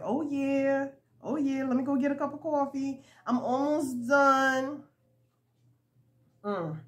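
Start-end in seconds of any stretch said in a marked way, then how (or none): 0.0-4.8 pleased with oneself, higher pitch; happy. Retold or imitated. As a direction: retell it smugly happy, stretching the final words. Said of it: "I got so happy and I was like".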